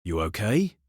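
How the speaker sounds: strained check-in through gritted teeth; understated, pained effort. A narrator's reading. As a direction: grit the question out through pain. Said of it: "I grit out".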